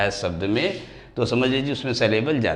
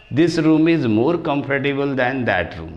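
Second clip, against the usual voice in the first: slow example reading; 2 semitones higher, much slower than usual. Shown as a demonstration. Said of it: "teacher reads example sentence".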